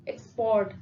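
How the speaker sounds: एक्सपोर्ट with a fuller ओ sound in पोर्ट; stress on पोर्ट. Shown as a demonstration. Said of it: "ज्यादा जो sound आ रही है".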